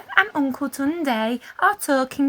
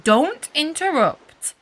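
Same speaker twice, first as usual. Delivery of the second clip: stern father; 4 semitones higher, 5 dB louder than usual. A narrator's reading. Father scolds child.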